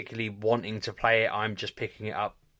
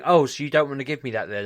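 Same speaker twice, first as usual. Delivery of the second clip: mimicking game character; 5 semitones higher, 6 dB louder than usual. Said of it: "Already is going".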